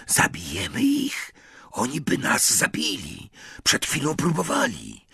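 soft, breath-only whisper; very hushed whisper. A narrator's reading. Boy asking in the dark about killing captives, whispering. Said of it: "jeszcze ciszej zapytał".

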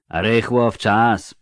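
slow, sneering sarcasm; sarcastic. Acted. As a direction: drawl it with a sneer. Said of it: "z wyraźnym przekąsem". (z wyraźnym przekąsem)

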